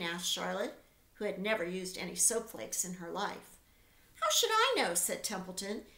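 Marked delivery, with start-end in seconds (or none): 4.2-4.9 higher, louder irritated rat; annoyed rat. A narrator's reading. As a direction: toss it back, fed up. Templeton snaps back.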